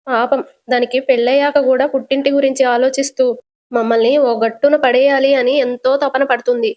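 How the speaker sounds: understated lament, slowed in places; mildly tearful words to the late husband; crying. Acted. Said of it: "అని ఏడ్చుకుంటూ".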